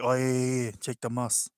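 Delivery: loud, eager "yeah yeah yeah"; mock the friend's loud delighted recognition; excited recognition. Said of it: "you'd be like".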